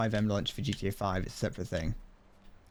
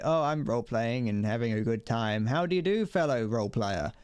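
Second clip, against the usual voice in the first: mock friendly roleplayer. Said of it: "the people who are, like, really normal".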